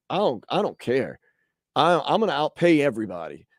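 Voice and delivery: rich oilman with a light Texas twang; halfway Texas accent. Acted. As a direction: play a Texas booster, accent only half on. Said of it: "putting on this halfway Texas accent".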